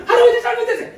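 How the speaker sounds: high, loud mock child apology; apologizing grandchild. Preacher imitates grandchild nagging grandpa with apologies, mock pleading. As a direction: pester grandpa with an overdone child's sorry.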